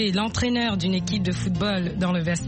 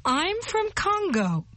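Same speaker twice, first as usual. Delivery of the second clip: slow, higher-pitched model sentence; model to repeat; 10 semitones higher, slower than usual. Shown as a demonstration. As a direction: say it slowly for learners to repeat. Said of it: "en répétant après moi".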